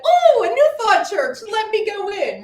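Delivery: high chirpy mock cheer; mock cheerful. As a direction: chirp it like a naive newcomer.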